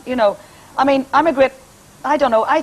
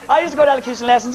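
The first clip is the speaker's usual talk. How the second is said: laughing; 4 semitones higher, much faster than usual. Real, not acted. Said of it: "I talk posh".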